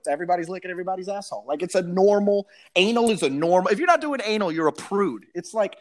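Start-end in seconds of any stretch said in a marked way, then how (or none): 0.1-1.4 rattled off fast, a touch softer; tossed off quickly as if obvious; fast agreement. Retold or imitated. Agreeing with the movie line, rushing it out fast. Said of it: "I'm like".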